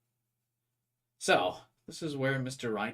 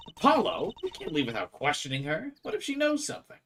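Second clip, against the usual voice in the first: high urgent voice; 7 semitones higher than usual. Acted. Athena voiced urging.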